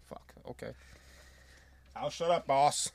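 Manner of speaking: whispered, sheepish surrender; meek whispered giving in. Retold or imitated. Adam Cole backing down to Regal, whispered meekly. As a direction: shrink back and whisper it. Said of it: "Adam Cole's like".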